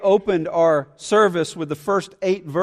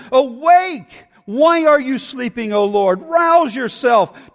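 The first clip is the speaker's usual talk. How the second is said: urgent cry; 4 semitones higher, slower than usual. Acted. Psalm plea to God.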